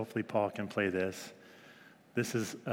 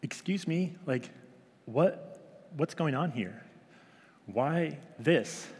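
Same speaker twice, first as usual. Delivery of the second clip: put-on indignant toddler; 4 semitones higher, slower than usual. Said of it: "just be like".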